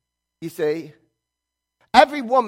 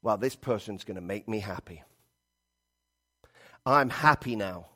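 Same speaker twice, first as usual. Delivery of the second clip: much lower and softer, a contented hush; naive dreamy hope; 7 semitones lower, 6 dB quieter than usual. Retold or imitated. Preacher voicing a single person hoping a partner brings happiness, low and soft. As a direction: murmur it like you're sure love fixes everything. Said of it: "and we go".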